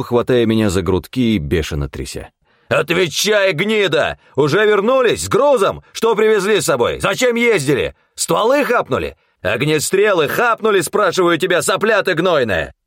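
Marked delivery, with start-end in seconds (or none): 2.7-12.7 furious interrogation. A narrator's reading. Nikło shaking the hunter, yelling questions furiously. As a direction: shake the answers out of him.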